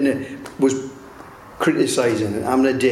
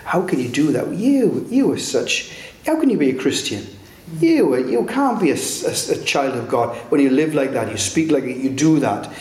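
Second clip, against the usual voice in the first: hammed-up condemning voice hounding a believer; accusing devil. The devil condemning Dave for his deeds, mock accusing. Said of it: "he'll come around the other side and say".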